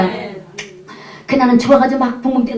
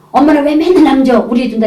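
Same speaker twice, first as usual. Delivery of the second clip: whining protest; 3 semitones higher, 4 dB louder than usual. Retold or imitated. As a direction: imitate a kid protesting to mom. Child protests mother gave meat away. (투정 부리는 아이 흉내)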